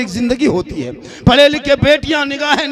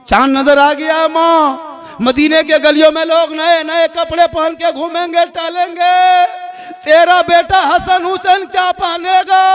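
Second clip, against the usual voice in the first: put-on a child's begging voice, higher and tearful; lightly voiced child pleading with his mother; pleading little boy; 4 semitones higher than usual. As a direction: beg mother like a small son before Eid. Sons Hasan and Husain plead.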